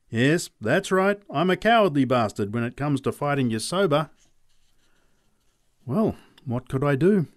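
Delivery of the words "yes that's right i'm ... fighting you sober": Charlie Robbins. Acted. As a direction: plead your way out of a fight, pitched up. Robbins admits cowardice.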